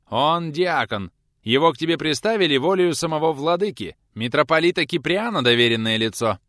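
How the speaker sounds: nose in the air, boasting; a snooty messenger boasting of his master, pompous. A narrator's reading. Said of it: "важно задрав нос".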